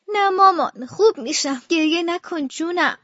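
tender, fading reassurance; gentle words slowing at the end; weakly soothing mother. Acted. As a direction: comfort a crying child while in pain. Sick mother soothes crying child.

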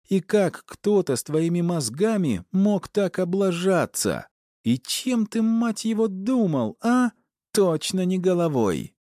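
high screeching rage at her husband; wife storming in, yelling at her husband in a high furious voice. A narrator's reading. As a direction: scream it down at him. Enraged wife scolding.

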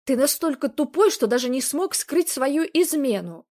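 put-on hurt girlfriend yelling at her cheating boyfriend; angry outburst. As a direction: fling the insult at him.

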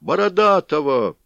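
loud, high shout; crowd shouting. A narrator's reading. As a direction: yell the name.

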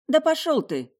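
high, loud indignant snap; angry retort. A narrator's reading. The girl snapping back at the rude brunette, high and loud. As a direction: fling it back at him.

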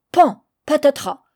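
high, loud crash words; crockery smashing, sounded out. A narrator's reading. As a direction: call out the smash. Crash of the fist.

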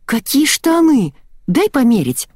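put-on a girl begging to try on the trousers, delighted. A narrator's reading. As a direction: gush over the trousers, slowly at first. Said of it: "Девочка пришла в восторг".

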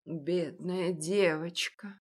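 slow, soft sorrowful sigh of pity; old baker pities the orphaned girl, sad; sadly. Acted. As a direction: grieve for her quietly. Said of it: "сказал печально кондитер".

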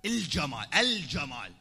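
الجمال said "al-jamal" with a clear lam; lam pronounced. Shown as a demonstration. Preacher correcting the dialect, lam articulated. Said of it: "تلفظ اللام".

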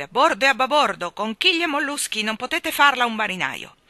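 high, loud sailor's exclamations; loud, salty outburst; blustering shout. A narrator's reading. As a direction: bluster like an old admiral. Admiral breaks in with sailor oaths.

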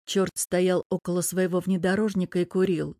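usual speaking voice

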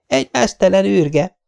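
high, eager shout to the gang; excited call. Acted. Girl spotting the naked man, excitedly calling the others. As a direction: call the others over, thrilled. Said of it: "kiáltotta izgatottan".

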